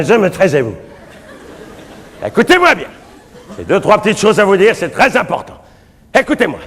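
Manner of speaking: frantic priest yelling for silence; calming the crowd. Acted. Priest quieting a rowdy crowd.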